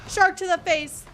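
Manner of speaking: loud, high battle cry; excited shout. Real, not acted. Gamer yelling at a shark attack, loud and high. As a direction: yell it as the shark hits.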